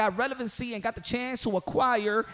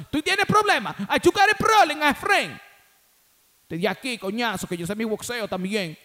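playful Spanish taunt; 4 dB louder than usual. Pretend. Switching to Spanish banter.

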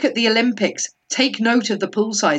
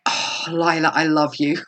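breathy mock whisper of devotion; whispered adoration; 4 semitones lower than usual. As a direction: whisper it like a swooning fan. Mock adoring aside to Lila.

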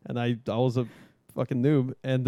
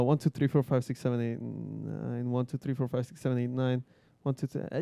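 quick count under the breath, trailing off; mock buckle count; 5 dB quieter than usual. Instructor checking a student's straps, muttered count. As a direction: rattle through the numbers softly.

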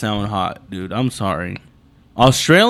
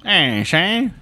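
raised New York heckle; New York accent; 4 semitones higher than usual. Acted. Co-host needling Shane over the poll, New York accent. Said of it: "the New York accent".

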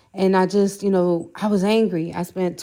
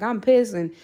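retold angry rant; 3 semitones higher than usual. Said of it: "I told him I was pissed".

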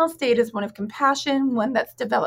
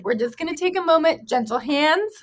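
calm crisis counselor; 2 semitones higher than usual. Shown as a demonstration. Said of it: "in your therapist voice".

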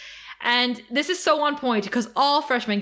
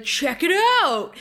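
stoner vamp voice; 7 semitones higher, 4 dB louder than usual. Retold or imitated. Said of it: "just stoner vamp voice".

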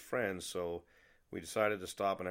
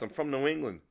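put-on raised, insistent voice in own accent; urgent protest; 6 semitones higher, 5 dB louder than usual. Traveller telling the cook where he's from, urgent protest. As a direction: protest where you come from, higher and louder.

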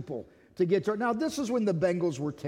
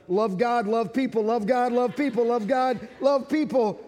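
urgent repeated reminder, slightly raised; insistent Holy Spirit; 3 semitones higher, 3 dB louder than usual. Acted. Holy Spirit nagging the preacher in traffic, insistent. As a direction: drum it in, phrase after phrase. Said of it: "And the Holy Spirit's going".

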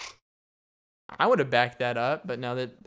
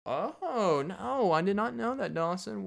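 mock listener; 7 semitones higher, slower than usual. Mock listener reply to host.

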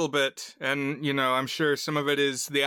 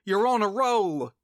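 higher, sing-out call to a buddy; teasing friend; 7 semitones higher than usual. Retold or imitated. Friend to guy playing a video game, high teasing call. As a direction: call it out high, falling on the last word. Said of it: "his friend says".

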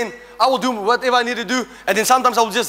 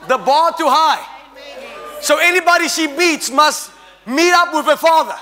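raised preaching voice; fervent preacher's call; preaching shout. Real, not acted. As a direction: drive it home to the church. Preacher raising his voice.

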